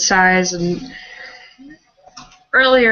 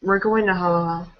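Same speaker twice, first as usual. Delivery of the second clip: solemn. Acted. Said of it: "just solemnly nods and says".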